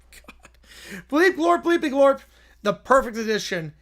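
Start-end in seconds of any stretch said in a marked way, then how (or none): 1.1-2.2 higher, punchier alien bleeps; alien gibberish voice. Pretend. Alien sealing his perfect edition, higher. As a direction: bounce it up like a proud alien.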